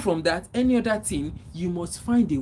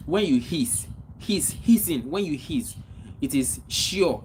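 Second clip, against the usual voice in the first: hiss demo. Shown as a demonstration. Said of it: "You call it sure in Yoruba language".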